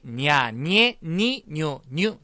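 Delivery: "냐, 니에, 니, 뉴, 뉴" with palatal ny onsets; ñ pronunciation. Shown as a demonstration. Teacher leading the class to repeat, ñ syllable drill. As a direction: say "냐, 니에, 니, 뉴, 뉴" slowly as separate syllables. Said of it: "그렇게 발음해요".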